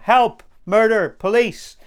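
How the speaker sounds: loud, high call for help; acted cry for rescue; mock yell. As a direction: call out as if raising the alarm. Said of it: "do I have to yell".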